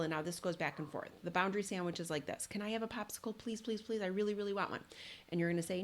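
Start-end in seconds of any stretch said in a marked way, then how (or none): 2.5-4.8 put-on begging child. A small child begging a parent for a popsicle, whiny and pleading. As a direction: whine for the popsicle like a little kid. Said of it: "little Johnny comes over and says".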